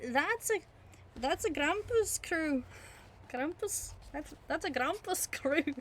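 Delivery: put-on hearty old innkeeper calling out; landlord voice. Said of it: "The landlord cried".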